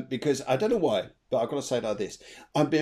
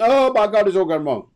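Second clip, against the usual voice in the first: sudden high alarmed gasp of dismay; mock dismay; 7 semitones higher, 10 dB louder than usual. Pretend panic at seeing the five of swords. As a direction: play the shocked tarot reader. Acted dismay at bad card.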